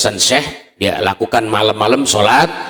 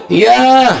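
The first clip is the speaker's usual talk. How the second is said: ghostly answer; 5 dB louder than usual. Acted. Dead man answers from well.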